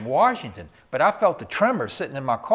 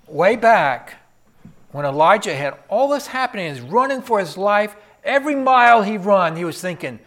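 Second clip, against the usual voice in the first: ordinary talk, nothing marked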